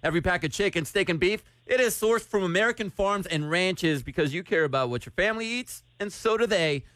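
smooth radio ad read; sponsor read. Acted. Host telling a contest winner about the meat box, sponsor read. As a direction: read the sponsor copy conversationally.

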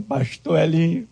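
high, slow, tearful wail of a weeping woman; a sobbing woman pleads with her pastor, high and slow; crying woman. Retold or imitated. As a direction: cry out "meu Deus do céu" like a sobbing churchgoer. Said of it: "vi uma senhora chorando".

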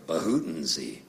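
low mock cough with a made-up word; imitated dad's cough. Son showing how dad used to cough, low imitated cough. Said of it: "my dad used to cough".

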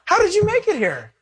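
laughing, high-pitched mock shout of disbelief; a laughing friend stunned to see an old classmate in heaven; astonished disbelief. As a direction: shout it like you can't believe who made it. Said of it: "turn around and go".

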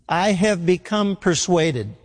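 slow, leaning on "become"; stress on become. Shown as a demonstration. Preacher to congregation, slow with "become" stressed. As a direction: say "become" slow and firm, landing on it. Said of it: "Emphasis on become".

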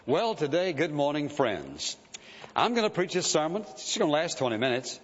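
mock timid preacher, hemming and hawing; halting, noncommittal sermon opening; hem-hawing preacher. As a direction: hem and haw your way into it. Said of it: "And I hem-hawed around".

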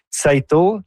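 "Tzeitel" drawn out carefully as an attempt; careful, slow go at saying "Tzeitel"; attempted pronunciation. Real, not acted. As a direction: try out the name "Tzeitel", slowly. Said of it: "j'essaie de le prononcer".

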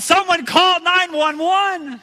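slow, high, loud call for help; high slow desperate shout; yelled. Retold or imitated. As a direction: shout for help across the beach. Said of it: "I yelled".

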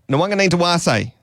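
triumphant attempt. Shown as a demonstration. Presenter finally gets through the player's name, high and eager. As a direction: push the whole name out high in one go.

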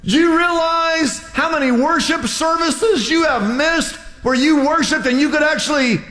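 imagined rant building to a shout; incredulous inner rant. Retold or imitated. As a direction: pour out the unspoken rebuke. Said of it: "But I thought".

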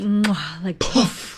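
mock chef's kiss. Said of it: "Was that like a chef's kiss?".

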